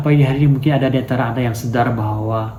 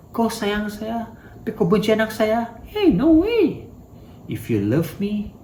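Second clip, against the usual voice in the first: high indignant protest, pitched up; angry parent; 9 semitones higher, slower than usual. Retold or imitated. Parent protests to the host, high and indignant. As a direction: play the offended parent, voice shooting up. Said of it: "Pasti marah kan".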